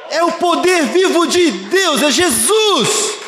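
slow, climbing to a high shouted aleluia; fiery preaching. Acted. Pastor preaches living hope to the church, climbing to a shout.

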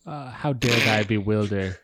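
put-on English accent. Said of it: "say that again".

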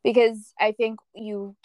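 giddy, laughing through words; bubbling over with happiness. Real, not acted. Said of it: "I'm just giddy right now".

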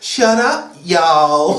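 drawled, badly faked Southern accent; a pop singer. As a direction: drawl the "y'all" with pitch dropping. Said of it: "drawled the singer".

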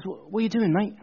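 lightly voiced London bloke; casual Londoner with a hint of cockney; London accent. London guy calling to man on bridge, light London accent. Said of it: "London guy, he goes".

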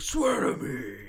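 high, strained Batman yell; hammed-up shouted threat; jokingly yelled. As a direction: yell it like Batman trying way too hard. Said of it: "I still yell that, like, jokingly".

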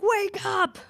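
high pitched mock scream; whisper yelling. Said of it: "I just scream right now".

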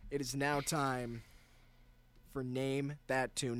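smooth DJ voice, slowing into the show title; radio announcer. Acted. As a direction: announce it like a rock radio host.

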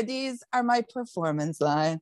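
slow, savouring mock pride; tried out with slow mock pride; slow mock proud. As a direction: roll the phrase out slowly, pleased with it. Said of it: "That sounds so much better".

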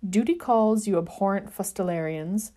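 prim, overly polite brush-off; disgustingly polite. Acted. Sirius to his friends, in mock polite tones. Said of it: "stated in his disgustingly polite tones".

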